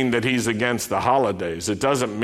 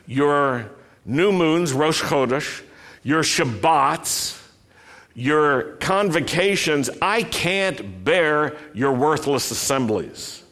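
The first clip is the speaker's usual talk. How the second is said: solemn scripture reading. Acted. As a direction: read it as God's grave complaint. Reads scripture in God's voice.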